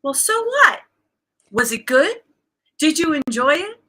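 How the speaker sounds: high-pitched imitation of an unbothered coach; coach's breezy reassurance. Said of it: "she would say".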